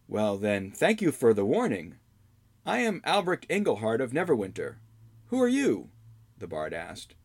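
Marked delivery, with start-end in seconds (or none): 0.1-5.9 put-on young hero voice. Albrecht introduces himself.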